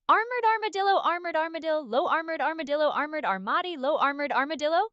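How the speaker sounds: quick tongue twister, run together; sped-up tongue twister. Shown as a demonstration. Asked to speed up, hurried tongue twister. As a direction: rattle it off without a breath. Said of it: "you want me to speed it up".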